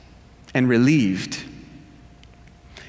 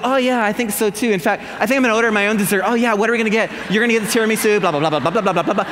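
higher, fast, eager chatter; excited girlfriends; 4 semitones higher, much faster than usual. Retold or imitated. Girlfriends at dinner all agreeing to dessert, eager. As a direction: gush about ordering dessert. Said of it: "all the others say".

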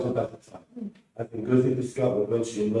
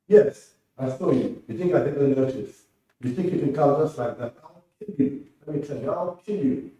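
threatening; 4 semitones higher than usual. Acted. Alhaji threatening the prince.

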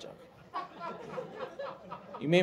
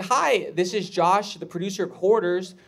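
upbeat producer on the phone, pitched slightly up; loud, presenter-like phone pitch; Josh; 4 semitones higher, 3 dB louder than usual. Retold or imitated. Producer of Hoarders asking for Barbara, upbeat pitch.

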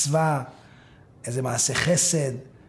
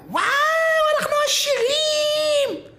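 shouting; 3 dB louder than usual. Acted. Wife discovering they are rich, shouting. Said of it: "פתאום הוא שומע צעקה".

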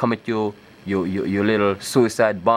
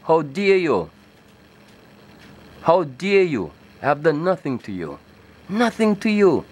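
indignant retort. Retold or imitated. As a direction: throw it back at them, stung and righteous. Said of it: "So my response was".

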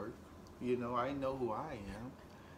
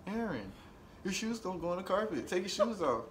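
mimicking nagging girlfriend; 6 semitones higher than usual. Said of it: "she says".

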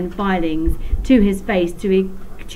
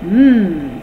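a pleased, louder hum-sigh of enjoyment; contented sigh; 6 dB louder than usual. A narrator's reading. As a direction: savour it out loud. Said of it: "sighed Bog".

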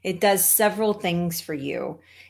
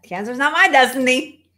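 emphatic, swelling catchphrase with a rising lift on "my"; a declaration, higher and louder; Rosette; 4 semitones higher, 4 dB louder than usual. Retold or imitated. Speaker quoting a friend's cancer catchphrase, emphatic imitation. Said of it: "'Cause that's how Rosette says it".

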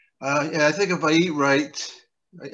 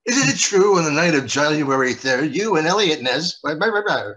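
mock lawyer; 2 semitones higher, 5 dB louder than usual. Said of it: "There's a reference for you".

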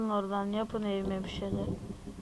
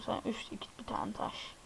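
whispered countdown; 9 dB quieter than usual. Real, not acted. Counting down while placing stone.

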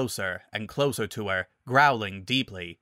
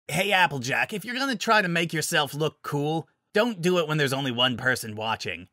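lightly voiced cocky friend, a bit higher; raised pitch, lightly mocking; teasing Rainbow Dash; 4 semitones higher than usual. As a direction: tease a friend for showing off.

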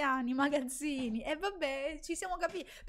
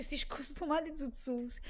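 put-on old man quote; 5 dB quieter than usual. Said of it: "Il vecchio che dice".

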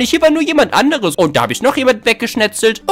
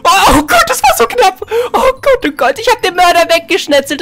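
relieved excitement; 7 semitones higher, 4 dB louder than usual. Real, not acted. Narrow escape in game.

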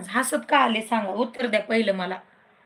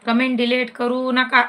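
firmer, louder repeat; louder warning; 4 dB louder than usual. Real, not acted. Host warning viewer against deleting comments, louder. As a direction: insist on नका, louder.

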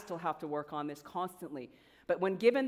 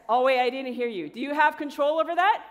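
loud, raised pitch, pushing for an answer; rallying the crowd; 6 semitones higher, 9 dB louder than usual. Real, not acted. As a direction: fire the question out to the back row. Pressing audience for louder answer.

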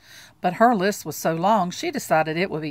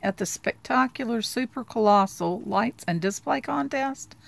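reading a flyer; 5 semitones higher, 4 dB louder than usual. Acted. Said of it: "Charlie Brown read".

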